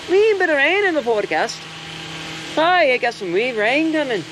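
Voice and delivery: put-on high, lilting Scottish accent. Vlogger joking to viewers about rain coming, Scottish accent. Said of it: "it's my Scottish accent".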